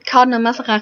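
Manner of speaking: attempted French accent on the name; shitty French accent. Real, not acted. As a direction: say Mazarin in a clumsy French accent. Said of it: "without some shitty French accent".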